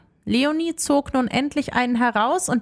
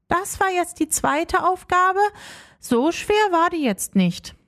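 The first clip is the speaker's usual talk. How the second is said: put-on lightly raised girl's voice, unimpressed; girl Leonie; 5 semitones higher than usual. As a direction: shrug it off, a bit higher.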